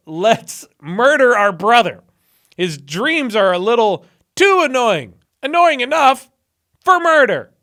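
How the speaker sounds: loud, slow, mock-sinister plotting; hammed-up villain brothers. Brothers scheming against Joseph, in a hammed-up villain voice.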